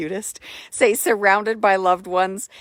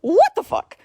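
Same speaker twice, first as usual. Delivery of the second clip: much higher squawky parrot imitation; 11 semitones higher, 4 dB louder than usual. Retelling a parrot video to viewers, high parrot squawk. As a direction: mimic a talking parrot. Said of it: "the little parrots are going".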